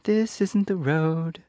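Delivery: high, slow bird voice; stork voice. A narrator's reading. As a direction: tell them plainly like a stork. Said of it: "said the stork".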